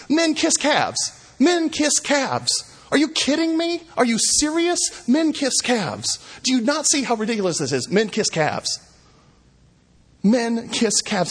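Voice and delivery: high-pitched incredulous outcry of a prophet; emphatic shouted punchline. Acted. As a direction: cry it out in disbelief, leaning on each word. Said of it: "shouts his punchline with emphasis".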